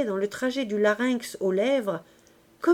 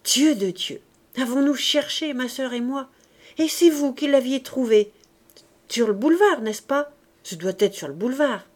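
put-on excited girl. Éponine excited about the letters.

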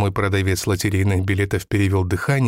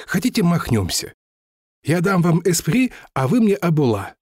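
higher, lightly voiced old seller telling his fall; lightly voiced lottery seller; 7 semitones higher than usual. Lottery seller tells the narrator his family's ruin, lightly voiced and higher. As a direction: recount lost riches with mild bitter pride.

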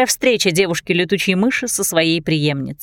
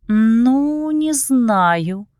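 drawn out; 4 semitones higher, much slower than usual. Acted. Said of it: "протянула София".

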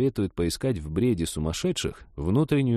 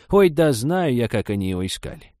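put-on dismissive old woman, starting high; high scoffing opening that drops off; scornful; 5 semitones higher, 4 dB louder than usual. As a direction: wave it away with contempt. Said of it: "презрительно отмахнулась Степановна".

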